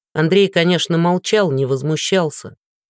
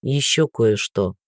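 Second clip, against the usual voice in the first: low, slow, scornful; contemptuous; 6 semitones lower, slower than usual. Acted. Guard to beaten Andrey, slow and scornful. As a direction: look down on him as you say it. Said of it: "смерил Андрея презрительным взглядом".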